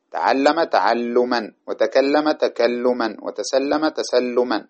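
slow, careful dictation of each form; measured teacher's dictation pace. Shown as a demonstration. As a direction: spell out every form slowly for the class. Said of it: "وكذلك هذا في تفاعل".

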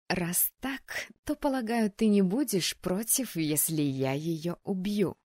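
lightly chirpy sweet menace; sweet chirp. Acted. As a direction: chirp it sweetly, then slow down. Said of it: "прощебетала Генриетта".

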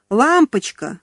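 yelled pet name. Acted. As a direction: yell it out with a boy's relief. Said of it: "заорал Кирюшка".

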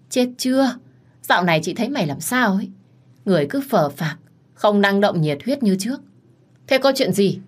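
lightly voiced bossy senior colleague, exasperated; scolding older colleague. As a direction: nag her like a bossy big sister.

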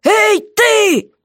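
high, loud jailer's bellow; hammed-up jailer's holler. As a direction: yell even harder up the wall. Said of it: "ещё громче завопил он".

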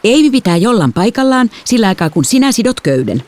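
mildly strict order; stern father. A narrator's reading. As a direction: lay down the law as the father. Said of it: "isä sanoi tiukasti".

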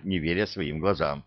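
ordinary delivery

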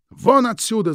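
high, loud furious cry; shouting. Acted. Louise screaming at Krieg to get out, loud and high. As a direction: throw him out with a yell. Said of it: "закричала Луиза".

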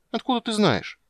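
put-on high, surprised little girl; a little princess startled into asking; startled child. A narrator's reading. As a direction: caught out, she blurts it.

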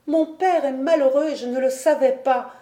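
high-pitched, lightly acted distress; tearful. A narrator's reading. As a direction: lament your father's unhappiness. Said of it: "répondit Diane en sanglotant". (plainte éplorée)

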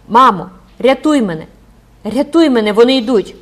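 high, loud terrified cry for help; frightened girl crying out; desperate plea. Acted. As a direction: beg mother to save you, panicking. Girl begs mother to save her.

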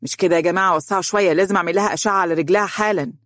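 brisk, rushed doctor's orders; in a hurry. Acted. Doctor hurrying past the family, rushed and brisk. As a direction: push through the crowd quickly. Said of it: "في عجلة من أمره".

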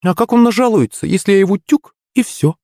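high, girlish mock threat; playful high menace; Юленька's voice. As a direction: pitch way up as a cheeky girl threatening.

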